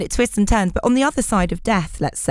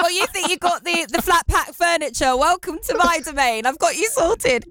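smug helper; 7 semitones higher than usual. Retold or imitated.

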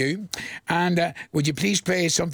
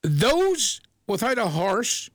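slow, drawn-out riddle line; "Those" stretched with a lingering rise; dramatic riddle delivery; 4 semitones higher, much slower than usual. Shown as a demonstration. Host poses a riddle to listeners, slow and teasing. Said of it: "Are you ready for it?".

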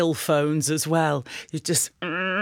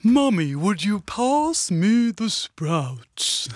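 put-on slow, drawn-out posh Thatcher voice as a child; Maggie Thatcher; much slower than usual. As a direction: stretch it out like the Iron Lady. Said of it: "Me with me Maggie Thatcher impressions".

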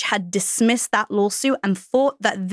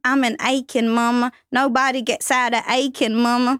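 put-on Southern accent. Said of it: "If anyone's seen the film Beautiful Creatures".

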